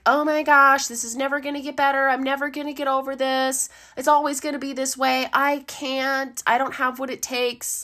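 mock despair, spiralling fast; despairing self-talk.

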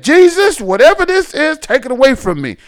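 retelling his son's frantic prayer to Jesus, urgent; urgent mock prayer. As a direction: call on Jesus urgently, retold.

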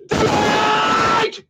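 high, playful shrieked call. Pretend. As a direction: sing out high like a show host. Calling out next listener's name.

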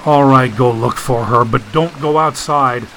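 understated weary concession; a touch of exhaustion; weary groan. Acted. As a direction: give in tiredly, with mild resignation. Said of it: "Wearily, Dagon groaned".

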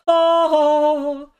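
high startled ah; surprised gasp. Retold or imitated. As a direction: yelp it up high. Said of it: "I was like".

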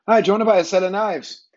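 high-pitched, pushy mock seller's accent; imitated street seller's accent. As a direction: call out the pitch in the stranger's accent. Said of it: "That was his accent".

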